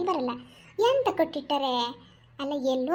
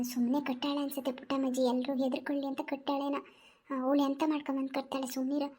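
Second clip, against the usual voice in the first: hushed village woman. Acted. Village women whispering plans to steal vegetables, hushed. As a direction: keep it down so granny won't hear.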